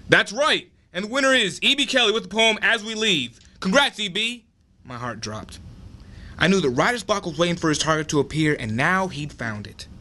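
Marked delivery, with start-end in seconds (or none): 0.1-4.4 put-on ditzy girl voice. Girl continues announcement.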